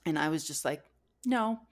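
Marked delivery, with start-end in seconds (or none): 1.2-1.6 a higher, pouty mock-toddler no; toddler attitude. Turning down the food her husband offered, pouty toddler refusal. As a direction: refuse like a sulking two-year-old. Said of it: "I felt like I had this attitude".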